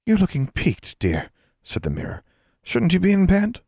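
high, fussy auntie voice; a talking mirror fussing over a pale girl, high and prim; fussy magic mirror. Acted. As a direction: cluck over her like a fussy aunt.

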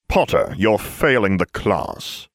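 slow lazy drawl. Acted. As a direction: draw it out lazily. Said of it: "Severus drawled".

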